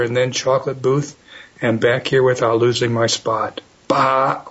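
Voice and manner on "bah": sheep bleat. Acted. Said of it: "Oops, that just came out".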